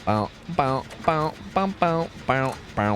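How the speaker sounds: a lightly put-on teasing sing-song, drawn out at the end; mock taunting call. Teasing a teammate who is running off, in a lightly put-on sing-song.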